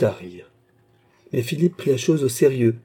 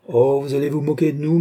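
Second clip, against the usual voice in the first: higher, lively exclamation; exclaiming; 5 semitones higher, 4 dB louder than usual. A narrator's reading. Queen teasing the American, exclaiming. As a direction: cry out in playful protest. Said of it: "s'écria la reine".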